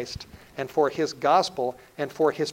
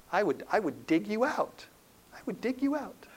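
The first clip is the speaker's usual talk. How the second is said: put-on higher, softening promise to a child; lightly acted fatherly reassurance, pitched up; retold reassurance; 6 semitones higher, 3 dB quieter than usual. Father promises to dig out his son, lightly reassuring.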